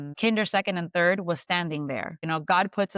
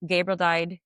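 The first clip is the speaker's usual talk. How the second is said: robotic flat voice. Retold or imitated. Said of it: "It was so robotic".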